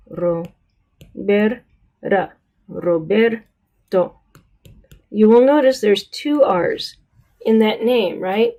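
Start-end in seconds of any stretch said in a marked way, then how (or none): 0.1-4.2 Roberto said very slowly, the second r tapped; slow Spanish Roberto. Shown as a demonstration. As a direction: drag it out, tap the middle r. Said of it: "the second R in the name Roberto".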